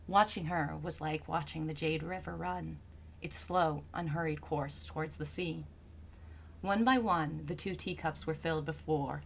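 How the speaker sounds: low, soft, measured storyteller; composed literary narration; story narration. A narrator's reading. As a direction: read the tale calmly, settling at phrase ends.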